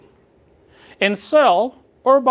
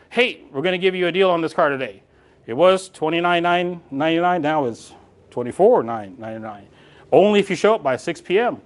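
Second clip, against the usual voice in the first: used car salesman. Retold or imitated. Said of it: "we sound like a used car salesman".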